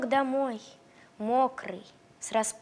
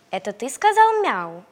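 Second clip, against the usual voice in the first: puppy voice; 7 dB louder than usual. Acted. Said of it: "спросил щенок петуха".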